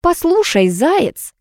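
high-pitched hissed warning; tense, menacing address; hissing. A narrator's reading. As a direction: hiss it crossly into the phone. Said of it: "зашипела я в трубку".

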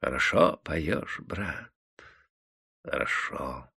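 soft, low, slow kindly praise; gently compliment the singer; affectionate praise. A narrator's reading. Tavern keeper kindly praising the tired singer, soft and low. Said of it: "ласково заметил Николай Иванович".

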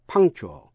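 "punctual" with the c as a k; tongue back for the k in "punctual"; C sounded as K. Shown as a demonstration. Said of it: "cũng phát âm như k".

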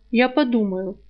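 plain reading voice

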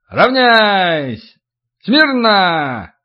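barked parade-ground commands; shouting drill sergeant. Acted.

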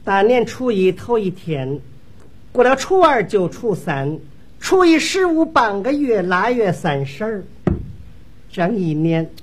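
measured singer's stage verse; 模仿演员上场念白. Acted. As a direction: recite it like an opening rhyme, with pauses. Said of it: "我连程玉兰上场都学一学啊。". (一板一眼念定场诗)

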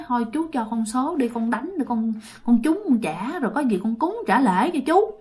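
soft, coaxing plea; acted meek begging; pleading. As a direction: beg him quietly for a favour. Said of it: "năn nỉ, năn nỉ".

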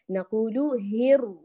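هر slow with the lam merged into ra; slow syllable. Shown as a demonstration. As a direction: say هر slowly, no lam. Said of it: "اللام أدغمت في الراء".

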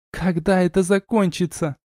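high-pitched, restrained cross question; sister's mild snarl. A narrator's reading. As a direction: echo the demand as a cross little sister. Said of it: "оскалилась сестрёнка".

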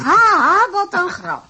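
scoffing laugh. Acted. Bursts out at joke.

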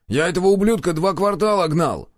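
high-pitched indignant exclamation; angry protest. A narrator's reading. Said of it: "раздался гневный выкрик". (гневное возмущение)

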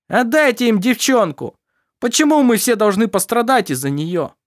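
high, loud frightened yell; panicked shouting. A narrator's reading. Crewmen shouting to hand over the girl, panicked. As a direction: scream it from across the deck. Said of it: "послышались крики".

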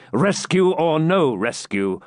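slow, high, emphatic demand; commanding, drawn-out victor's threat; stern ultimatum. A narrator's reading. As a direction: give the fallen foe no way out. Victor threatens the fallen knight.

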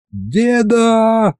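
put-on high childish call to grandpa; boy yells for his grandpa across the square; excited yell. A narrator's reading. Excited high yell. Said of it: "завопил я".

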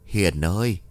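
eerie father's voice. Acted. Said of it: "Lần này là giọng của đàn ông".

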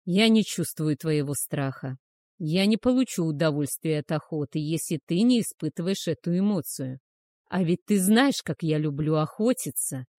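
lightly growled hunter's threat. Acted. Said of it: "прорычал он".

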